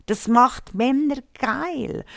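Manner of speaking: whispered, slow and emphatic. Real, not acted. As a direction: hiss it out slowly for emphasis. Stressing a point, slow whisper.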